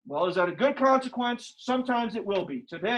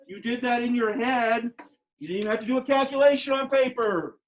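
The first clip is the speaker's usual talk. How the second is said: excited. Real, not acted. Praising students' head math.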